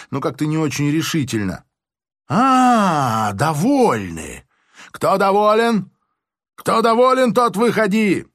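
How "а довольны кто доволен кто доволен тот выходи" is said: high, loud, slow challenge; major shouting at crowd. A narrator's reading. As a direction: call out the volunteers, goading them. (громкий высокий вызов толпе)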